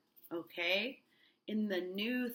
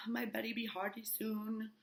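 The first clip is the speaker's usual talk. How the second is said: lightly done Barbados accent; a hint of a Barbados accent; 3 semitones higher, 4 dB quieter than usual. Tituba worried for Betty, light Barbados accent. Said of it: "in her Barbados accent".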